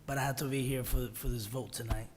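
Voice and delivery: hoarse, sick voice; strained voice from a cold; raspy whisper. Real, not acted. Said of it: "excuse my voice, I'm a little under the weather".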